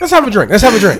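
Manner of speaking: high, loud, laughing coaxing; laughing mock peacemaker. Breaking up a pretend bar fight, laughing mock peacemaker. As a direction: jovially talk someone down through laughter.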